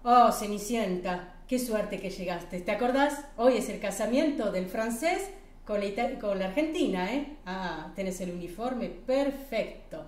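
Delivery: hearty welcome in Spanish; cheerful Gavino. Acted. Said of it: "il lui dit".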